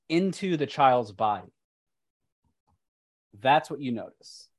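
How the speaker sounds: deliberate storytelling with pauses; game master narration. Acted. Game master showing players what lies in the crate, measured narration. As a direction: lay out each eerie detail phrase by phrase.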